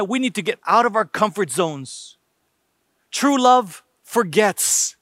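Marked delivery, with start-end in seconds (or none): 3.1-5.0 slow, lifted proclamation; slow emphatic. Real, not acted. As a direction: proclaim it slowly, word by word. Preacher proclaims a key line.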